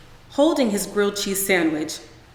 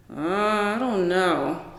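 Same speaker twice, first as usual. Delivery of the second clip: mouth full; slower than usual. A narrator's reading. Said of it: "he mumbled with a mouthful of sandwich".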